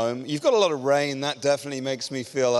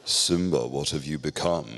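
evil Disney villain; 9 semitones lower than usual. Retold or imitated. Preacher mocking how Disney villains sound, a much lower evil villain voice. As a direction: play the sneering cartoon villain with a dark English voice. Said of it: "a voice for an evil character".

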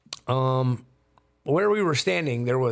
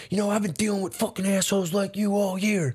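retold irritated stranger; 5 semitones higher, faster than usual. Retold angry man in argument.

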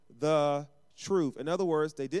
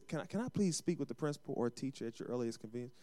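humble polite request; 3 semitones lower, 8 dB quieter, faster than usual. Retold or imitated. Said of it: "But humility says".

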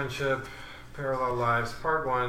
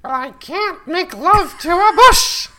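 loud, high and slow; loud joking; 15 dB louder than usual. Real, not acted. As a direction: belt the joke at the mic. Joking about the mic.

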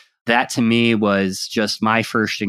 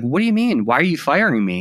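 imitating an upset employee, pitched higher; higher-pitched, retold protest at being let go; mildly upset; 6 semitones higher than usual. Fired employee challenging his boss, imitated as upset. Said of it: "he was really upset with me".

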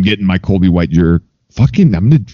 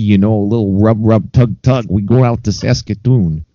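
lightly hammed-up Canadian voice, higher and chatty; mock Canadian accent; 5 semitones higher than usual. Cohost goofing off in a put-on Canadian accent. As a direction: play a jokey Saskatoon local bragging about his town.

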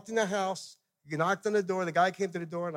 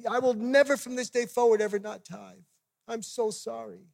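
higher-pitched earnest vow, re-enacted; retold tearful repentance; 4 semitones higher than usual. Missionary vowing to God to always tithe, re-enacted contrite pleading. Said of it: "I start repenting".

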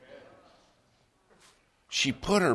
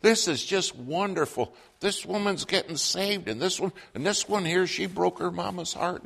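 excited clerk; 7 semitones higher than usual. Retold or imitated. Clerk reassuring the truck drivers, high excited gush. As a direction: jump in bubbling over with joy.

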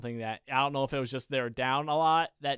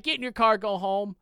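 higher, exasperated brush-off; 6 semitones higher, 4 dB louder than usual. Retold or imitated. Telling the angry opponent to leave, exasperated. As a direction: wave him away in disbelief.

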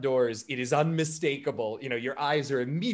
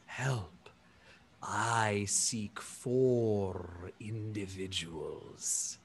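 very slow, soft, lowered giant voice; slightly hopeful elephant person; 5 semitones lower, 6 dB quieter, much slower than usual. Acted. Elephant alien asks a stranger for help, gently hopeful. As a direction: stretch each word gently, deep and earnest. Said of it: "he perks up a little bit at that and says".

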